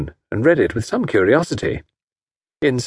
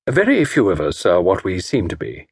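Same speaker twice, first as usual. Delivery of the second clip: gentle; 3 semitones lower than usual. Acted. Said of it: "said Tommy gently".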